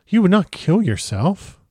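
hoarse, slow, shaken question. A narrator's reading. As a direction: ask it hoarsely in disbelief. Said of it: "he asked hoarsely".

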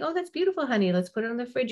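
quick, high, throwaway compliment; dismissive praise. Shown as a demonstration. Parent brushing off a child's drawing, quick and dismissive. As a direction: rattle off empty praise. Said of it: "Instead of saying".

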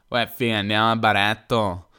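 a lightly hammed-up Milanese twang on "uè, fi, andiamo al baretto"; a light mock Milanese accent. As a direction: toss off "uè, fi" like a Milan local heading for a drink. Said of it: "imitazione un po' infelice dell'accento, eh, milanese".

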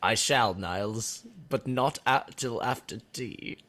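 playacted British sitcom dialogue; hammed-up fake British banter; mock British accent. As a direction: trade lines as two cartoon Brits. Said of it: "your accents are decent".

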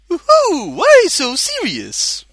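high, slow, manic cackling villain voice; Joker impression. Reading out Joker Mario's name, as the Joker. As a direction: camp it up like the Joker.

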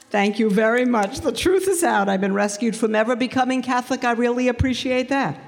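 mock relieved, high and fast; mock thankful relief; sarcastic thanks. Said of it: "That was my first response".

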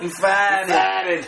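imitated Boston vowels, R dropped; South Boston accent. Quoting his brother's word, South Boston accent. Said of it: "That's how he says it".

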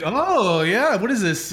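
high snooty surprise. Retold or imitated. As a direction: play the impressed snob. Snobby friends impersonated.

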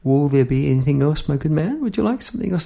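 gentle courteous question, rising at the end; courteous shopkeeper asking nicely; polite inquiry. Retold or imitated. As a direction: ask it like a well-mannered shop assistant. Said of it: "the polite inquiry of".

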